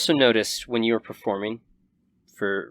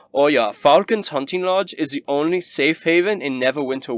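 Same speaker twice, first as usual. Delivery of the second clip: Rabaya's voice; 4 semitones higher, 3 dB louder than usual. Acted. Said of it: "Rabaya kinda speaks up and says".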